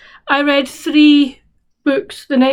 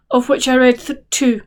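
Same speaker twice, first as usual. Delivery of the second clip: yawning. Real, not acted. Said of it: "I shouldn't be yawning".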